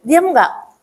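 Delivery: acted parent's hushing scold; mildly stern telling-off; mock scolding. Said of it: "kalau kita bentak tambah nangis".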